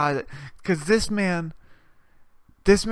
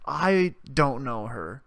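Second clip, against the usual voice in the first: deadpan denial; much slower than usual. Retold or imitated. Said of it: "I'm audibly like".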